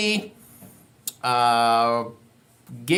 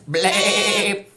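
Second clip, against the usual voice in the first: nasal bleh bleat; a goaty bleh instead of a baa; goat bleat; 2 semitones lower than usual. Pretend. Correcting the goat sound for kids, bleh. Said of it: "he makes a sound like this".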